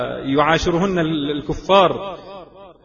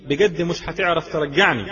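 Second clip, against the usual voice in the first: retold defiant Egyptian quote, mildly raised; proud confidence; 2 semitones higher than usual. Preacher voicing Abeer's words to her father, proud confidence. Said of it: "تقولها بعزة وبثقة".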